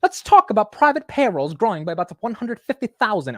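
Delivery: loud, high mock British accent; hammed-up British accent, high-pitched; bad British accent. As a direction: belt it out in a badly faked British accent. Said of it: "I'm so bad at the accent".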